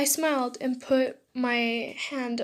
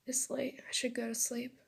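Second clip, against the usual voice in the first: sighing; 8 dB quieter than usual. Acted. Boy alone in bed late at night, sighing. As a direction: say it softer, with a sigh. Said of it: "Izuku sighed".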